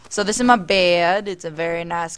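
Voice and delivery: put-on drawled tour-guide accent. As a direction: show guests around in a put-on accent. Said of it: "speaking in this accent".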